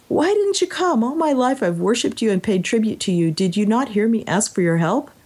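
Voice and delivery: high, accusing outburst that settles down; indignant demand. Acted. Warrior confronting Nagai on the mountain, high indignant demand. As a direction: confront the god who failed you.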